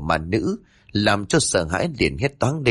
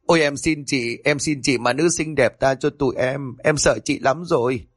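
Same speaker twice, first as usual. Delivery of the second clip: mildly tearful begging; sobbing plea; 3 semitones higher than usual. Acted. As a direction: plead for mercy with a touch of a sob. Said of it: "Tân lúc này lên tiếng nức nở". (van xin hơi nức nở)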